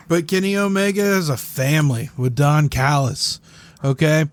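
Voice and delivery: wrestling promo. Acted. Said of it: "If you're gonna cut a promo, cut a goddamn promo".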